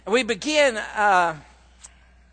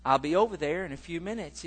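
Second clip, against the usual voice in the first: much softer, soothing son; calm son; 7 dB quieter than usual. Retold or imitated. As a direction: settle her down gently. Son calming his upset mother.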